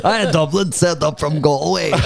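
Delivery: mock Galway accent; put-on Galway shout-in, lightly done; Brendan. Co-host heckles as the absent friend, mock Galway accent. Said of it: "That's not his voice".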